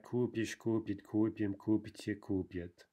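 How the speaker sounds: купишь, купит, купим all stressed on first syllable; stress shifted back. Shown as a demonstration. Teacher showing stress shifting back, купишь onward stressed on КУ. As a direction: hit КУ in every form, купишь to купит. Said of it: "but then shifting back".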